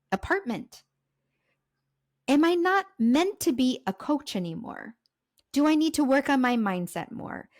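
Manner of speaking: mildly exasperated self-questioning, climbing in pitch; frustrated questions, voice lifting as they pile up; retold frustration. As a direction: fire off pleading questions, mounting in frustration. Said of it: "these questions are usually out of anger and frustration".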